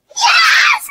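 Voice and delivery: very high, loud celebratory scream; triumphant yell. Acted. Celebrates after a heart-pounding wait, triumphant yell. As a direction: explode with a piercing yell of joy.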